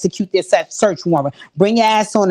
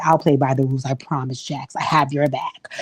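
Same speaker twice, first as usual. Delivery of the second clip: mock pleading apology; 7 semitones lower, 5 dB quieter than usual. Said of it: "rolled down a car and was like".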